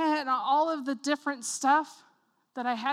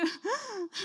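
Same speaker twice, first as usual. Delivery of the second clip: high mock sobbing noise; soft pretend whimper; mock crying; 6 semitones higher, 6 dB quieter than usual. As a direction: imitate yourself crying, played for laughs. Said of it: "I'm, like, crying".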